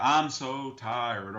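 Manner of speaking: imitating a politician's faked Southern accent; Hillary Clinton accent. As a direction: put on a fake folksy Southern accent, stretching the words. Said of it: "the Hillary accent".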